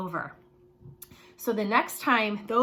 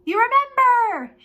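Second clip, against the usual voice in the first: gasp, then a much higher, louder cry; delighted gasp; 14 semitones higher, 10 dB louder than usual. Real, not acted. Teacher gasping happily when kids remember. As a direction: burst out in surprised delight.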